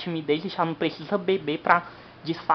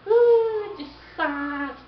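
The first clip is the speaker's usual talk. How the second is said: teasing shout; 11 semitones higher, 6 dB louder, much slower than usual. Acted. Crowd teasing shy man.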